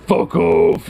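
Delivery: high, loud mock snap for a cat; hissy and evil. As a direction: voice an evil little cat telling someone off. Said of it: "just all hissy and evil".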